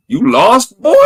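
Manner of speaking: high, loud mock redneck drawl; hammed-up redneck asking if he's lost. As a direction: bark it like a backwoods trucker. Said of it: "the dude goes".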